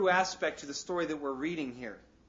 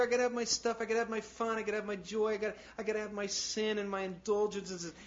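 mock whiny demands; 6 semitones higher than usual. Voicing worldly people's demands.

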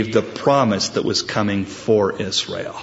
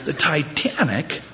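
higher, drawn-out disbelieving repeat; incredulous echo; 4 semitones higher, 3 dB quieter than usual. Acted. Punched man echoes the absurd excuse, incredulous. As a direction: stretch it out in mock disbelief.

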